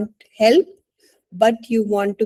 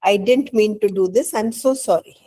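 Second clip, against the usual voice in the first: put-on apologetic child. Shown as a demonstration. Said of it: "you say".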